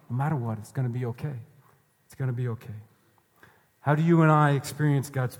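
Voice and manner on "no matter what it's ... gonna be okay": soft, lowered-volume reassurance; reassuring. Real, not acted. Preacher telling listeners what Jesus promises, softly reassuring. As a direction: reassure them gently and quietly.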